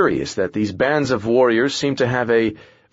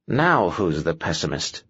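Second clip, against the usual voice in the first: grumbling; 5 semitones lower than usual. Acted. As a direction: lower grumpy retort. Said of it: "Thistle grumbled".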